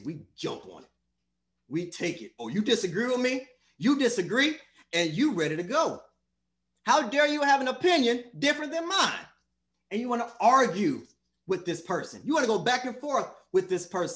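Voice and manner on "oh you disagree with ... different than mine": acted indignation, pitch jumping up on the challenge; mock confrontational. Preacher imitating people who love arguing, combative. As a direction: play someone itching to argue. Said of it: "disagree with somebody and get in their face".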